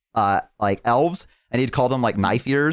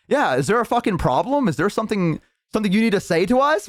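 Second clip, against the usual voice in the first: raised-pitch mock challenge, quickening at the end; retold intimidation; 6 semitones higher than usual. Orcs surrounding an elf, confrontational. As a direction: square up to them as a gang.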